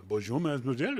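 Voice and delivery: a bad schoolboy Acadian French accent, lightly done; awful Acadian French. Greeting the restaurant owner in awful Acadian French. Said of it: "awful junior high school Nova Scotia Acadian French".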